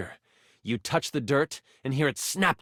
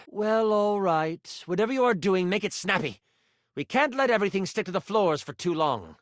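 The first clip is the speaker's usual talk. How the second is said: mildly impatient mentor; 3 semitones higher than usual. Acted. Mentor tells apprentice to make it snappy, mildly impatient. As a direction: hurry the apprentice along.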